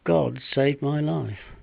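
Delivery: heartfelt storytelling in verse, with weighted pauses; dramatic monologue recitation. Acted. Once-broke man recalling the stray dog that saved him, recited dramatically. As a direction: recite rhyming verse as a down-and-out man's memories.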